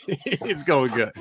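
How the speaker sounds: breathless giggling through the words; can't stop laughing, giggling fits; hiccup giggles. Real, not acted. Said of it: "I can't stop laughing".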